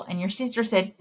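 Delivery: put-on lively read-aloud for little kids; story reading. A narrator's reading. Librarian reading a picture book to children. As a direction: read the rhymes like story time.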